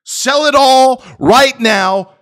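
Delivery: slow, loud, high mocking order; imitating the CEO. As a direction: hammer the CEO's demand out slowly. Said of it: "he says".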